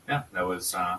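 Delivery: holding back tears; choked up. Real, not acted. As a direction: voice thick with tears, trailing off. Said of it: "Can you not cry on my show".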